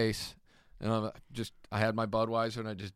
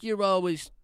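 higher, slow sneering impression of the rival; mocking rival; 6 semitones higher, slower than usual. Comic quoting the rival's diaper jab, higher and slow. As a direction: lay on the rival's smugness.

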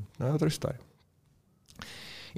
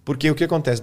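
ordinary delivery

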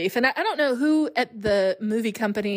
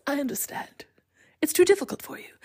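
breathy, half-whispered imitation, rising high; Atreyu's weird voice; 5 semitones higher than usual. Boy tells his horse he understands, weird hushed voice. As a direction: mimic an odd, hushed, high-pitched delivery. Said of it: "He says it in the weirdest voice".

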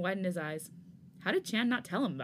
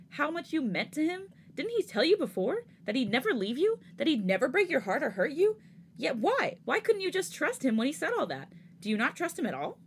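higher and louder, angry reproach; raised voice; 7 semitones higher, 4 dB louder than usual. Acted. Hyunjin yelling at Jisung over Changbin, raised angry voice. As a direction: let it rise as he lashes out. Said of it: "Hyunjin suddenly raised his voice".

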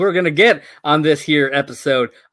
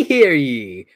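king's proclamation; 3 dB louder than usual. Acted. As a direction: bring the herald call down to close it. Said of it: "King of England".

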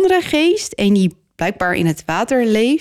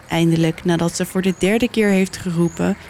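usual speaking voice

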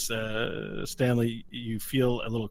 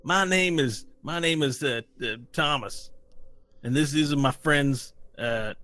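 lightly voiced shady peddler, higher pitched; trench-coat gnome; 3 semitones higher than usual. Gnome in trench coat pitching a deal to adventurers, lightly voiced peddler. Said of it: "the one guy in the trench coat's like".

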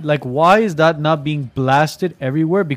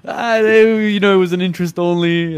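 naive homebuyer voice; 3 semitones higher, 3 dB louder than usual. Retold or imitated. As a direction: play the oblivious borrower. Voicing the parent's explanation.

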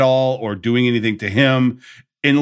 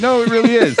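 imitated insistence; 11 semitones higher, 4 dB louder, faster than usual. Retold caller insisting it's really him.

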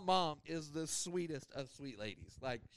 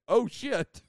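startled, louder exclamation as mom; mom's shocked little curse, mildly imitated; alarmed oh shit; 5 semitones higher, 10 dB louder than usual. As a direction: blurt it out as trouble starts. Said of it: "one of the only times I ever heard my mom cuss".

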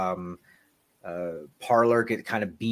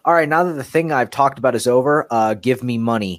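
loud, higher sales plea; cheesy YouTuber pitch; 3 semitones higher, 9 dB louder than usual. Retold or imitated. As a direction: beg for donations like a streamer. Parodying YouTuber asking for money.

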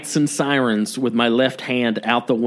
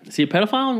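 whisper; 10 semitones higher, much faster than usual. Real, not acted. Echoing partner's question.

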